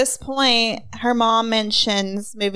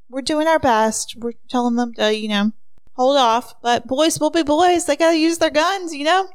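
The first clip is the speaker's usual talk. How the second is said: folksy sheriff; 5 semitones higher than usual. Acted. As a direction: shrug it off like a small-town cop. Sheriff voiced in retold scene.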